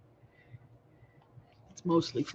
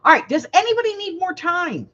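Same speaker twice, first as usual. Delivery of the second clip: calling out; 12 semitones higher, 4 dB louder than usual. Real, not acted. Calling out to the ladies.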